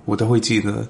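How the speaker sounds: ordinary talk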